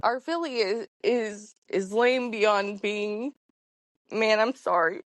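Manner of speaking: real emotion breaking through while apologizing; holding back tears. Real, not acted. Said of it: "I was hoping I wasn't gonna cry".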